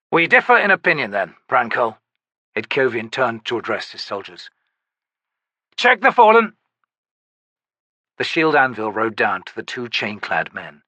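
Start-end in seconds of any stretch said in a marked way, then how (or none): 0.1-6.6 soldier questioning. Acted. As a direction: press the shaman with pointed questions. Itkovian, then orders soldiers.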